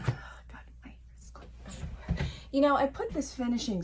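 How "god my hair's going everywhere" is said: sighing whisper about her hair; whispered aside. Real, not acted. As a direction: grumble it under your breath.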